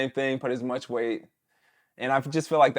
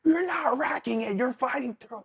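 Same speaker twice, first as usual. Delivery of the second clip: coach voice; 11 semitones higher, 4 dB quieter than usual. Retold or imitated. Coach voiced in lifting story.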